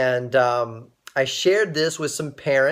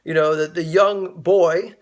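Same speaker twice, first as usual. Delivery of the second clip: lightly imitated Swaziland accent, pitched up at first; 3 semitones higher than usual. Ambassador meeting the young fundraiser, in a lightly imitated Swaziland accent. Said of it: "he said it with his Swaziland accent".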